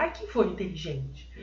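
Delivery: soft, sarcastic sneer on inteligente; mock praise, softly sarcastic; ironic. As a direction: ask it sweetly, meaning the opposite. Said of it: "Você tá ironizando o fato".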